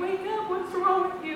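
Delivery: retold yelling husband. Husband trying to wake his wife from praying, loud alarmed yell. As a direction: yell to shake her awake. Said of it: "he's just screaming at me".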